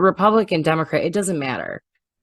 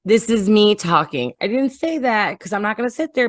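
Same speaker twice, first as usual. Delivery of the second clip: sarcastic higher echo; mocking repeat; 5 semitones higher than usual. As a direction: parrot her words back sarcastically. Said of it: "'Cause you're double speaking right now".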